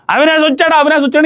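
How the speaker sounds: mock yell. Reviewer retelling how Gautam yelled about Avinash arriving, mild mock yell. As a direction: imitate someone shouting, without real volume. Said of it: "అవతలోడు గట్టిగా అరిచాడు".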